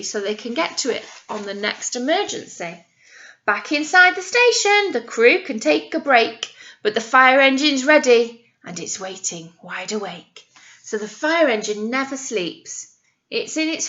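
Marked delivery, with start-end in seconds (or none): 3.4-10.4 put-on reading to children. Nursery teacher reads the ladder rhyme aloud, sing-song. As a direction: read the verse with wonder for little ones. Reads the rhyming picture book.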